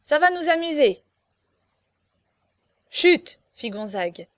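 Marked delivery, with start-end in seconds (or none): 0.0-1.0 high, loud exclamation; excited cry. A narrator's reading. Young marquis eager for amusement, excited cry. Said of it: "s'écria Chaverny". 2.9-3.4 loud, high, brief hush; sharp shushing. A narrator's reading. Master silencing the foolish marquis, sharp shush.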